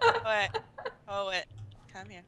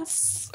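soft hiss of a sizzle; imitated sizzle; 12 dB quieter than usual. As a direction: hiss like something burning. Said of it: "I heard".

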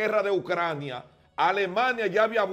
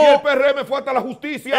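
entre risas, algo más alto; riendo; 4 semitones higher, 4 dB louder than usual. Real, not acted. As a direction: insiste mientras se ríe. Discusión que acaba en risa. (replica riendo al otro invitado)

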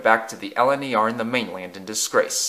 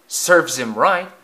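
smirking; 5 semitones higher, 4 dB louder than usual. Acted. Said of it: "smirked the driver".

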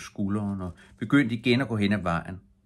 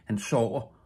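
mild call back, pitched up; lightly raised answer without real volume; 4 semitones higher than usual. A narrator's reading. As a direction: call it back, but keep it restrained. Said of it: "råbte drengen".

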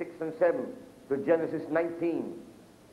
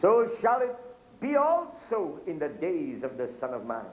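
scripture reading; 3 semitones higher than usual. Acted. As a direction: call the verse out to the congregation. Quotes scripture in preaching.

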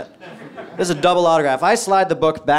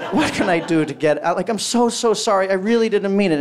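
higher-pitched apologetic begging; pleading; 4 semitones higher than usual. Retold or imitated. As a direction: imitate desperate begging for mercy. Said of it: "I'm begging the guy".

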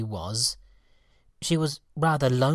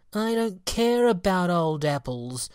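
sulky, higher pouting refusal; sulkily; 6 semitones higher, 4 dB louder than usual. Acted. Fairy answering her sisters, sulky and pouting. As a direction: pout it out. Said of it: "she said sulkily".

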